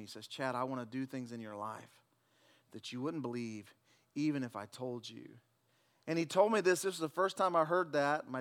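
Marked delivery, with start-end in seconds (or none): 0.3-5.3 softer, lower, hushed voice of God; God's whisper. Retold or imitated. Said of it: "the Lord just whispers to me".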